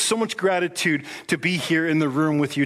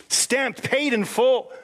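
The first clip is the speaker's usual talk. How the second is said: excited declaration; 9 semitones higher, much slower than usual. Real, not acted. Preacher telling the church they are bought, in excited high proclamation. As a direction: ring it out high, thrilled. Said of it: "I know, I get excited".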